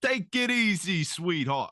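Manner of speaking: high, slow wiseguy purr; squawky bouncy Penguin. Retold or imitated. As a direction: roll it out like the Penguin. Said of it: "Penguin's got a little bit more of a".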